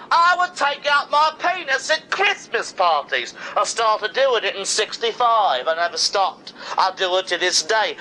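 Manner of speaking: brash, defiant rocker boasting; as John Lennon. Acted. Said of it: "John Lennon, nineteen seventy-nine".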